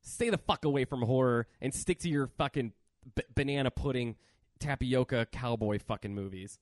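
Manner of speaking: fired-up angry tirade; real rant. Real, not acted. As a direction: scold the Canadians like you mean it. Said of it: "You got really mad about that just now".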